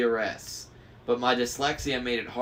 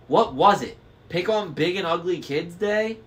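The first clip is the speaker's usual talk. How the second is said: loud, higher mocking crone; sneering old hag; 6 semitones higher, 5 dB louder than usual. A narrator's reading. Old woman mocking Tyson with a loud jeer. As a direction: jeer at them like a spiteful hag.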